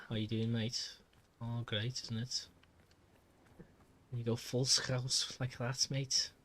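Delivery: chatty Liverpool accent; Scouse accent. Shown as a demonstration. Streamer showing off regional greetings, Scouse accent. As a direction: go full Scouse as a demonstration. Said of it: "do a bit of Scouse".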